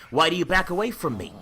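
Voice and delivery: defiant challenge. Acted. John confronts Dracula.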